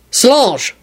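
sharp call of her name; demanding. Acted. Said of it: "Quentin demanded into his phone".

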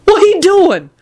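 high urgent voice, not truly whispered; mock furious whisper, voiced and high. A narrator's reading. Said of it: "Lucretia whispered furiously".

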